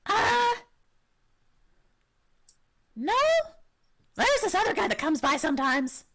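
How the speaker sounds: high, eager little kobold; high-pitched creature voice. Acted. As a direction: pipe up as an excitable kobold. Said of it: "when you do your kobold voice".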